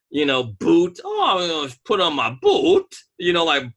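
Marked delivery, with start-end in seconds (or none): 1.0-3.0 mock Southern accent. Giving co-host another example, mock Southern accent. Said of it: "In the South, that's how they honestly speak".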